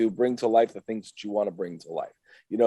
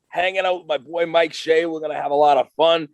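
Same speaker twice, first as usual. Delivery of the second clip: loud, high hyped-up wrestler; wrestler promo voice; 6 semitones higher, 5 dB louder than usual. Acted. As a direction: cut a promo like a pro wrestler. Guest's wrestler persona hype talk.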